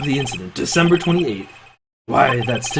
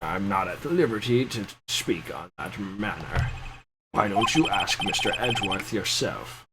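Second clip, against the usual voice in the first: quiet confession; 5 semitones lower, 7 dB quieter than usual. Acted.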